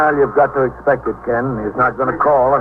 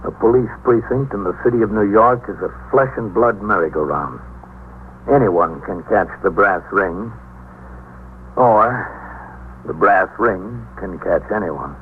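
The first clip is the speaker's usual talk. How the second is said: radio drama narration. A narrator's reading. Narrator opening the precinct story, measured and grave. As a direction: set the scene like a noir radio narrator.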